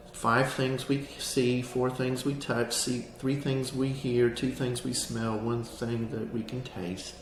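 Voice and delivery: walk them through it gently; calm grounding exercise. Shown as a demonstration. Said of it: "guides the 5-4-3-2-1 exercise".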